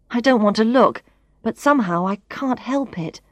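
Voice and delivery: usual speaking voice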